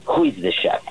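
put-on high-pitched Russian accent. Chef imitating a haughty guest asking for the chef, Russian accent. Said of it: "in a very Russian accent".

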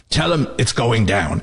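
slow, lightly gravelled caller's message; gravelly phone caller. Retold or imitated. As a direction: pass it on slowly as a gravelly informant. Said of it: "with this gravelly voice".

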